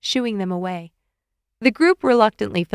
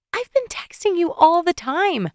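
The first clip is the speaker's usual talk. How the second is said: higher, slow insistent protest; arguing woman; 10 semitones higher than usual. A narrator's reading. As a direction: argue back, voiced as a woman. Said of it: "she argued".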